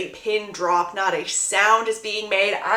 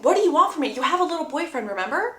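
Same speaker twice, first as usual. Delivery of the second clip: mild retold snap, pitched up at first; retold snapping; 5 semitones higher, faster than usual. Boy challenging the girl about her boyfriend, snapping. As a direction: act out an exasperated challenge. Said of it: "Conrad snaps her saying".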